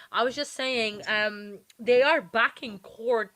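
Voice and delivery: choppy robotic call audio; glitchy robot voice over call. Real, not acted. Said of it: "like, a robot voice".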